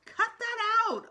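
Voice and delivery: high, loud fed-up snap; annoyed. A narrator's reading. Peter snapping at Sheila's teasing, high and loud. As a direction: snap at her to stop. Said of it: "I said".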